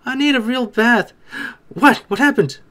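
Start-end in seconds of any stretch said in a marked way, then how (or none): 0.1-1.1 higher put-on voice, pleading for peace; hammed-up annoyed bather; mock exasperated plea. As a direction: playfully whine for some peace. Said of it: "I'd be like".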